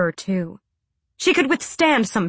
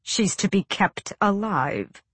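cool, bored voice; 3 dB quieter than usual. Acted. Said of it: "a cool, bored voice was saying".

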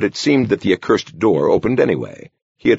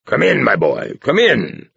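affable call; 3 semitones higher than usual. Acted. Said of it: "called an affable voice".

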